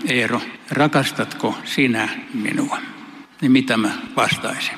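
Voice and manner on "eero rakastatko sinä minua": slow tender question. Pretend. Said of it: "jos Jeesus kysyy multa".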